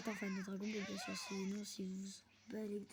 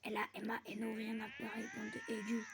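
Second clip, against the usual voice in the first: tongue-tied stumbling. Real, not acted. Gamer fumbling a line on camera, tongue-tied. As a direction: trip over the words, pitch leaping on the last. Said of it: "j'ai bégayé de malade".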